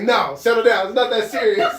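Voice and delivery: teasing the hyped audience; mock calm-down. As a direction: tell the crowd to chill. Imitating telling crowd to calm.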